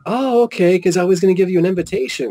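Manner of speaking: high, quickening imitation of a lady; lady at the table. Lady about to offer an invitation, high imitated voice. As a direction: raise it, then hurry the explanation. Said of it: "And she's like".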